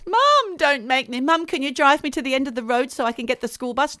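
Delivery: put-on high pleading child voice; whiny kid. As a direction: beg like a scared schoolkid. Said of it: "child pleading to mum".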